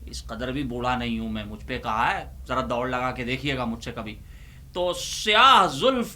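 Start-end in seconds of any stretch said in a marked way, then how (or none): 0.0-4.1 fast defensive aside. Real, not acted. Quick mock-defensive aside.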